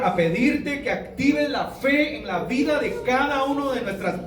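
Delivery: pastor praying aloud, earnest and steady; closing prayer. Acted. Pastor praying over the congregation for faith, earnest prayer voice. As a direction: lift the congregation's plea up to God.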